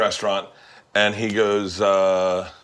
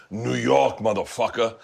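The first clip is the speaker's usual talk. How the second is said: usual-pitched, matter-of-fact New York accent; tough-talk New York accent; local New York accent; slower than usual. Shown as a demonstration. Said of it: "You're not gonna go".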